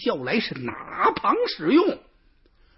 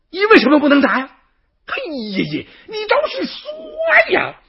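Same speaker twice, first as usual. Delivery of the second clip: high, loud, fast exasperated yelling; furious shout; 14 semitones higher, 7 dB louder, faster than usual. Acted. Third brother screaming at silent fifth brother, furious shout. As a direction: stamp your foot and scream at him. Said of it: "气得那位老三直跺脚".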